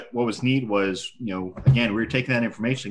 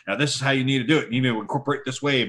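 bossy instructor voice; 5 semitones higher, much faster than usual. Retold or imitated. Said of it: "He was sitting there going".

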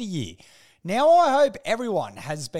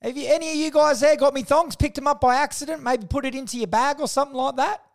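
calling out; 5 semitones higher than usual. Retold or imitated. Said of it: "I yelled out to all my colleagues".

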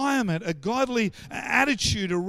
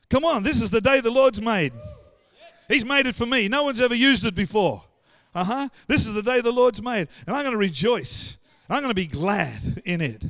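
loud, raised-voice scripture proclamation; fired-up declaration; 2 semitones higher, 6 dB louder than usual. Acted. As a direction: proclaim it boldly to the whole church.

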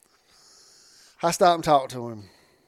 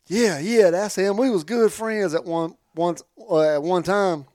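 excited yeah; 4 semitones higher than usual. Retold or imitated. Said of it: "he was like".

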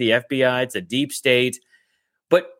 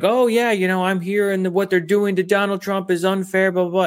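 lightly mocking higher voice; lightly put-on higher voice, trailing into blahs; imitated Trump supporter; 4 semitones higher than usual. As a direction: parody a supporter's complaint, pitched up. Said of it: "this woman had an accent".

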